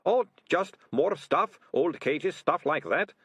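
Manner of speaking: mildly whining, high evasive voice; evasive ratcatcher. Acted. Deputy ratcatcher hiding what's in the cellar, evasive.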